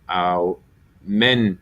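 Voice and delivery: Aumenta very slowly, syllable by syllable, stressing MEN. Shown as a demonstration. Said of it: "that's where the accent's gonna be".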